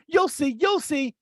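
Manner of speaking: slow, high, taunting threat; mock ominous mother. The mother's last threat on the phone, slow and taunting. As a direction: drag out the warning like the mother.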